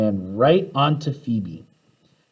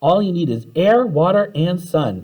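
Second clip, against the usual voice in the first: calling out; 6 semitones higher than usual. A narrator's reading. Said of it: "called Tim".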